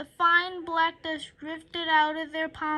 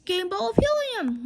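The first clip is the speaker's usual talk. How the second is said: shouting; 4 semitones higher, faster than usual. Acted. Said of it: "shouted a fan".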